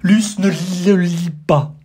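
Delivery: loud, high and slow stage whisper. Acted. Guest loudly stage-whispering a warning to Luce. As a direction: hiss it loud like a conspirator. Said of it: "il chuchote très fort".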